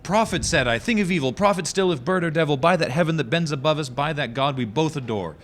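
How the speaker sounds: high, worked-up pleading; hammy stage actor. Acted. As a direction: overwrought theatrical plea. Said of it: "getting yourself a little worked up".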